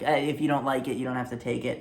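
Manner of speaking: mild mock shrug of a line; unconfident throwaway. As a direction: toss it off without conviction. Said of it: "very unconfident, kind of throwing away".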